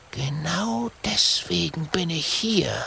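secretive unvoiced whisper; hushed secret whisper. A narrator's reading. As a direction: whisper it furtively. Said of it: "und flüstert".

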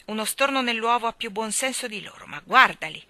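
high, loud jeering bird voice; shrill-free taunting starling; mocking starling. A narrator's reading. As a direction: jeer at the children like a cheeky bird. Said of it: "li canzonava lo storno".

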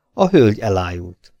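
blunt, curt baron's line; gruff. A narrator's reading. Baron coldly reporting the lady fainted, gruff. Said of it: "mondta a báró nyersen".

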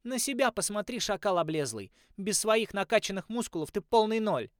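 high, loud scornful jeer; mocking shout. A narrator's reading. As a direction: hurl the insult back laughing. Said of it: "Холли рассмеялась ему в лицо".

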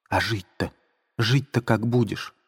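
Sonya's rising distraught pleas; exclaiming Sonya. Acted. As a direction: press him with mounting alarm. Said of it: "восклицала Соня".

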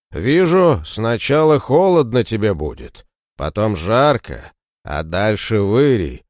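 prophesy doom like a ghost; sepulchral voice. Acted. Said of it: "громким загробным голосом".

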